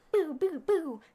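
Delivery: three short "boo" sound effects; imitated pulsar pulses. Shown as a demonstration. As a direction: voice the pulsing beam as boo-boo-boo. Imitating pulsar's flashing jets.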